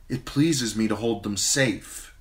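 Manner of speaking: put-on gently defiant young queen; Danny's voice.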